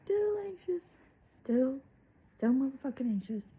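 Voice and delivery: half-whispered, exasperated "still anxious"; exasperated emphasis. Real, not acted. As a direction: stress each "still" in frustration. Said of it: "I had a full Ativan".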